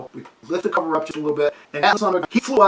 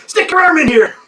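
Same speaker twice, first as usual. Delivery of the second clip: urgent order; 9 semitones higher, 8 dB louder than usual. Retold or imitated. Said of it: "He goes".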